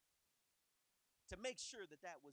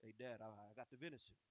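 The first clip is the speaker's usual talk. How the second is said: low put-on voice, pitched down; deep voice; 8 semitones lower, faster than usual. Shown as a demonstration. Jacob fooling his blind father, low deep voice. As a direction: fake a deep voice to sound like his brother. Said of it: "I just thought he had a deep voice".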